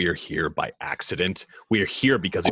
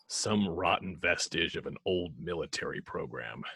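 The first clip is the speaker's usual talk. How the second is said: whispered confession; 6 dB quieter than usual. Acted. Batman admitting the truth to the team, whispered. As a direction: whisper it, softer, like a secret.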